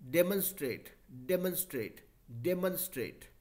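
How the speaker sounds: डेमोन्स्ट्रेट with the middle syllable said as a short "mun", not "mon"; teacher modelling डेमोन्स्ट्रेट with a reduced "mun" sound; demo pronunciation. Shown as a demonstration. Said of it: "एमओएन को मॉन नहीं बोला".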